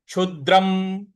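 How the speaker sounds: क्षुद्रम with a light push on the द; stress on द. Shown as a demonstration. Teacher shows students the stress, क्षुद्रम with weight on द. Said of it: "इस पर हमको हल्का सा बल लगाना है".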